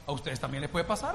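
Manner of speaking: earnest warning. Retold or imitated. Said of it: "le digo".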